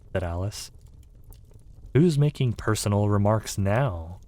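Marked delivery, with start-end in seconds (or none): 1.9-4.2 triumphant. Acted. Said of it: "asked triumphantly".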